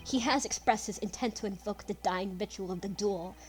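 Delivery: measured reading of a grave confession; lightly voiced character reading his will; Van Zieks with a twist. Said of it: "do the Van Zieks voice with a bit of a twist".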